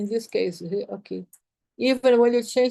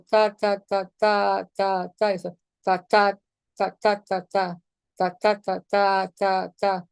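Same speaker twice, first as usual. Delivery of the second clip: chanted ta with accented beats hit harder; accented ta rhythm; 3 semitones lower than usual. Shown as a demonstration. Teacher shows articulation change by chanting ta. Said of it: "it changes the articulation".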